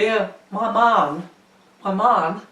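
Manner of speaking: a rough send-up of Christopher Walken; Christopher Walken impression. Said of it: "your version of Christopher Walken".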